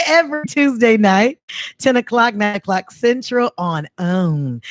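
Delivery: TV promo announcer, slowing to the end; voiceover. Pretend. Host playing network announcer for the show, promo voiceover. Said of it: "to be the voiceover for own".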